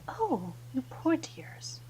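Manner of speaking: a touch of acted concern, drawn out; mildly taken aback. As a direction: coo gently with dismayed pity. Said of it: "sort of is taken aback by".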